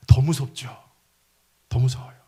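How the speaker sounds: hushed, scared whisper; a whispered shiver of fear. Acted. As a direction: breathe it like a secret fear.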